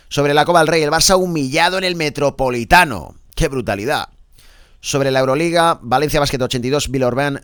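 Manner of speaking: punchy radio sports bulletin; lifted, emphatic press-review announcer; sports headline read. Acted. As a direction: project the headlines like a sports presenter.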